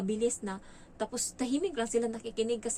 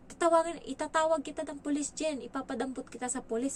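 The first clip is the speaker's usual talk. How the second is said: put-on child's threat; 6 semitones higher than usual.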